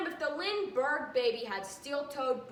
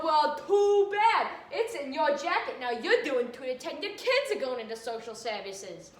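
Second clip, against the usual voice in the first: mock tough cop; 2 semitones higher, 4 dB louder than usual. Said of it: "And I go".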